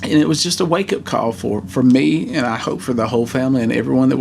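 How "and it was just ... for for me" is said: real tears of relief pushing through; emotional relief. Real, not acted. A teacher relieved his former student survived, tearful. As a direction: voice breaking with relief, higher. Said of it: "I'm getting emotional".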